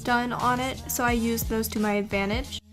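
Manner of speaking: soft, even tutorial voiceover; calm how-to narration over music. Acted.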